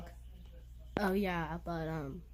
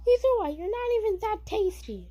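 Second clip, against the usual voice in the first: higher, taunting mouse voice; roasting as Jerry; 6 semitones higher than usual. Pretend. Jerry roasts Tweety in a battle, higher voice. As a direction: sass the bird back, higher.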